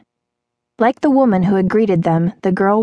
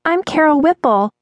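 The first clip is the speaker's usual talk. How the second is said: put-on high girlish voice; high-pitched waitress; shy waitress; 9 semitones higher than usual. A narrator's reading. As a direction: introduce yourself in a high young voice.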